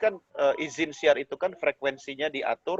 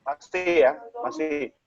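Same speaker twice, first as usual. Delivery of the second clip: choppy broken audio; slower than usual. Real, not acted. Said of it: "Suaranya putus-putus".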